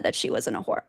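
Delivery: hushed whisper. Real, not acted. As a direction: drop to a hushed whisper on the taboo word. Naming a taboo label.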